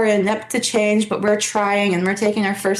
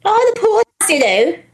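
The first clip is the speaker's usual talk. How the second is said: a squeaky, much higher mock Canadian accent; a jokey Canadian echo of the show name; playful Canadian accent, louder; overdone Canadian; 9 semitones higher, 5 dB louder than usual. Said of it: "I went a little too Canadian".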